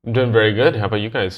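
just-woke-up voice; morning voice. Real, not acted. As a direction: voice fresh out of bed. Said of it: "now they get my morning voice".

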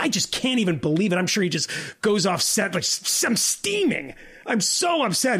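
squeaky fake steaming outrage, stammering s- s-; mock Joe Scarborough. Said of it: "He's like".

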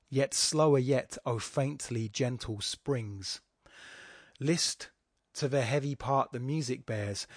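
slow, measured verse reading. Shown as a demonstration. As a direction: take the line slowly, pausing before "list". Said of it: "You just have to slow it down".

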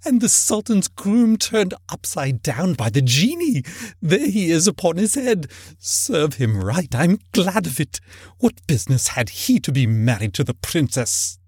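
put-on high, excited old man's reminiscence; between laughing and crying. A narrator's reading. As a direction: pour it out in earnest, high-pitched delight. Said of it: "extraordinary voice between laughing and crying".

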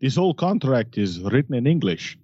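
hammy fake Italian accent; mock Italian, playful. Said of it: "that was my Italian".

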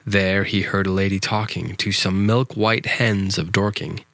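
measured, rhythmic storybook verse; poem reading. A narrator's reading. Host reads a nonsense poem for younger listeners, rhythmic recital. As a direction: read nonsense verse aloud, leaning into the rhyme.

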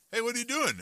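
높은 톤으로 아이 흉내; imitating the kids. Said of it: "they'll be like".

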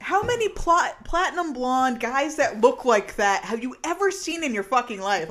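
high, loud disbelief; exasperated disbelief at a dumb character; incredulous rant. Real, not acted. Incredulous rant about Riley.

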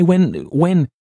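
building from high to very high and loud; manic outburst. A narrator's reading. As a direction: let the obsession run away, rising to a frantic peak. Narrator's growing manic outburst.

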